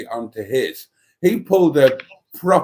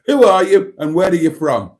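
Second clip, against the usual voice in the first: higher, louder mock TV-host question; imitated broadcaster; 6 semitones higher, 5 dB louder than usual. Retelling being put on the spot, mock game-show host. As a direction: quiz a contestant like a game-show presenter. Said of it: "he suddenly turns to me, puts me right on the spot".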